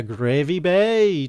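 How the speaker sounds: drawn-out attempt at the catchphrase; Gravy Bay impression. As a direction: stretch it out as a badly done impression. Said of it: "That was a terrible impression".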